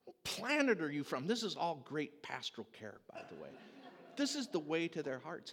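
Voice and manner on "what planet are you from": put-on high, stretched yell at the kids; exasperated driver yelling back at the kids; shouting at kids. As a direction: shout it over the whole van. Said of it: "I'm shouting it at many decibels".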